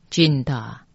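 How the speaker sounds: Jinda ending on an open "da"; special mantra pronunciation. Shown as a demonstration. Teacher showing an unusual sound, pronunciation demo. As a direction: demonstrate Jinda with a clear final "da". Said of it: "那字念大".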